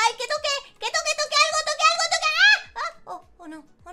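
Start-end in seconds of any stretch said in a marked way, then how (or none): 0.1-2.3 higher, rising panic; frantic plea as it slips; panicking. Acted. Girl begging the rolling bike to hit something, rising panic. 2.4-3.0 high loud scream. Acted. Girl as the motorbike plunges, high loud scream. Bike falls in water.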